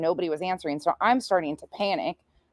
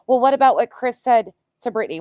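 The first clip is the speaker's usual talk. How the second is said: quick, higher mocking voice; sarcastic put-on whine; 6 semitones higher, 4 dB louder, faster than usual. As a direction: parrot the argument you're sick of hearing. Mocking an expected counterargument.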